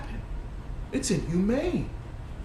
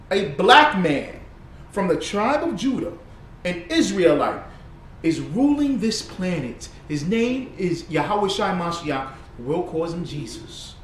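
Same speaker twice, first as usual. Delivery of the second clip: solemn preaching. Real, not acted. Solemn preaching about messiah.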